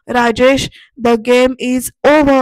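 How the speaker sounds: a retelling narrator hamming up the hero's line; dramatic pronouncement. Retold or imitated. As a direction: drag out each word like a villain's checkmate. Arnav ends the game dramatically.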